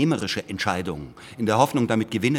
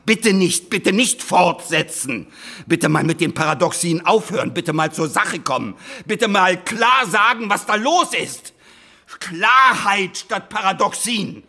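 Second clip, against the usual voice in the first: high, loud, begging them to stop; pleading louder and higher, fed up; exasperated pleading; 8 semitones higher, 5 dB louder than usual. Acted. Lawyer to the historians, exasperated high pleading.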